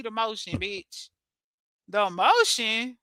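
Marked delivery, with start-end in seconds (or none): 1.9-3.0 slow rising disbelief; slow scornful question; incredulous. Real, not acted. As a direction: repeat it back like it's ridiculous. Mocking her self-description again.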